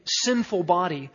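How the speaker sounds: emphasize the "sin" of "sinful", not "body"; stress on sin. Shown as a demonstration. Preacher explaining Paul's meaning to the congregation, stress on "sin" in "sinful". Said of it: "placing the emphasis on the word sin".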